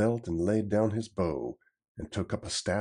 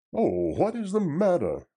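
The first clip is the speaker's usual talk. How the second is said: alarmed cry; 2 semitones higher, 5 dB louder than usual. Acted. Little John to his master, crying out in alarm. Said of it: "cried Little John".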